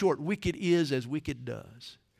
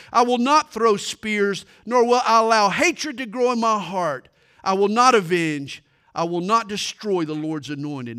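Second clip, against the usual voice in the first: firm, building, louder vow; answer blazing with fire; 5 semitones higher, 8 dB louder than usual. A narrator's reading. David fiercely refuses to become like Saul, with rising fire. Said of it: "David's answer that blazed with fire".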